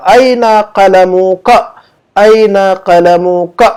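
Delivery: drawn-out, deliberate Arabic answer; very slow model answer. Shown as a demonstration. Teacher gives the Arabic answer very slowly for students to repeat. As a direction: stretch each syllable for learners.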